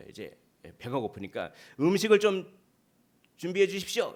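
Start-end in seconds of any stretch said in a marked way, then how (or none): 1.8-4.1 raised, high-pitched request; calling out loudly. Acted. Hungry Peter calls down from the rooftop for food, calling out loudly. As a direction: call out louder and higher for food. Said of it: "좀 큰 소리로 이렇게".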